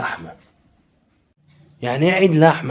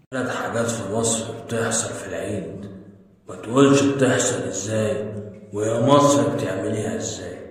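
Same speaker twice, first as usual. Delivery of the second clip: mock wisdom; 3 semitones lower than usual. Delivers mock wisdom in list form.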